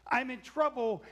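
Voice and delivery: a touch of alarm, imitated; alarmed thought. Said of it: "And he thought".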